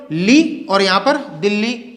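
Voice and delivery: "दिल्ली" said slowly with the "ल्ल" held long; slow gemination demo. Shown as a demonstration. Teacher showing students the long l, slowly. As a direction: stretch the doubled l in "दिल्ली". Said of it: "बोल के देखिए".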